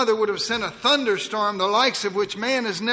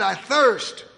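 a cry; 2 semitones higher, 5 dB louder than usual. Acted. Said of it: "he cried".

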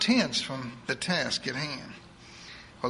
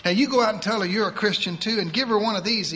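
put-on higher, fast voice of a bossy old churchwoman; eager church lady; 5 semitones higher, 4 dB louder, faster than usual. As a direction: rattle it off like a pushy saint. Edith, preacherly old lady.

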